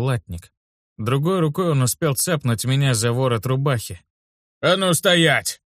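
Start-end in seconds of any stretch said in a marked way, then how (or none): 4.6-5.6 menacing growl. A narrator's reading. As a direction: growl the order at him slowly. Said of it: "грозно рыкнул он".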